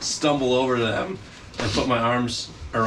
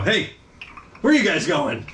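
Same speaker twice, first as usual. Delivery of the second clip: put-on higher, drunk call-out; drunken stupor; 5 semitones higher than usual. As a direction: hail them like a tipsy drunk. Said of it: "turn around in my drunken stupor and I go".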